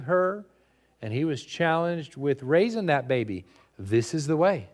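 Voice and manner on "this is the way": flat, firm, no inflection; a hint of Mandalorian resolve; level conviction. Shown as a demonstration. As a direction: state it like a fixed code. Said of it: "it's meant to be with level conviction".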